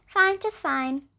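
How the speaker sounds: slow, drawn-out reply. Acted. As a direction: stretch it out, unbothered. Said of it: "Koala would reply".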